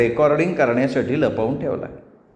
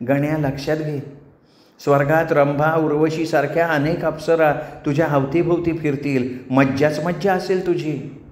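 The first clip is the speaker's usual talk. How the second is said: lightly voiced honeyed temptress; persuasive apsara; 2 semitones higher than usual. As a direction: entice him sweetly, savouring the promises. Menaka persuades Ganya. (लाडिकपणे मोहात पाडणारी अप्सरा)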